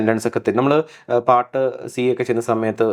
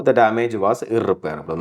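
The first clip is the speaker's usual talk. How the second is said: The damage was irreparable, drawn out; slow example read; 2 semitones lower, much slower than usual. Shown as a demonstration. Teacher reads the example sentence slowly to students. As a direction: dictate it slowly. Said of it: "slow example read".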